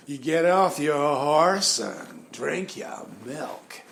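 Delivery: slow, mocking imitation of a cowboy drawl; slow, teasing cowboy drawl; mock director mimicking the drawl. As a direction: parody the drawl slowly. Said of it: "without that, uh, drawl".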